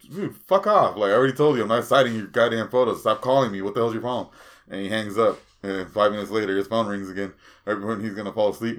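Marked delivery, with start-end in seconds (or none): 0.1-4.3 annoyed retort. Retold or imitated. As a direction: tell the caller off, fed up. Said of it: "Val Venus goes".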